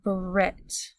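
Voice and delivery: "Brit" drawn out on its own; "Brit" as one isolated, careful syllable; sounded-out syllable. Shown as a demonstration. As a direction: sound out "Brit" for someone writing it. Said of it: "say the first syllable as we write it".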